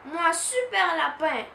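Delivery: small sister declaring herself a super bunny; little girl shouting. Acted. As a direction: insist proudly like a small child. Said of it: "crie Pauline".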